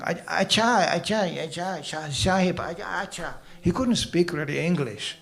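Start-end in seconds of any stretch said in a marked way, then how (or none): 0.0-3.3 lightly voiced Indian servant nodding along; a hint of an Indian accent, eager to please; mild Indian-accented yes-sir servant; Indian servant agreeing. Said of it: "the Indian was going".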